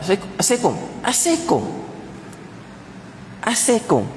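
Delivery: quick, high, swallowed "Assalamualaikum" as if on the phone; clipped phone salam. Shown as a demonstration. Preacher mocking hurried phone greetings, quick and high. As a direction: rattle off "Assalamualaikum" in a hurry, high pitched. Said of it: "dalam telefon kita nak cepat".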